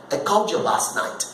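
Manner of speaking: "called you" run together as call-djoo; linked speech. Shown as a demonstration. Film character mentioning last night's call, linked words. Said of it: "numa linking".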